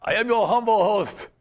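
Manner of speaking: lightly hammed Russian-accented host; playful fake Russian accent. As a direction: introduce yourself in a mock Russian accent. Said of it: "this is my Russian accent".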